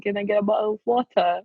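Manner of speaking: put-on quick, teasing British accent; lightly put-on British accent on the words; mock British accent. Friend retelling a joke about British speech, mock British accent. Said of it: "making fun of the way they say water".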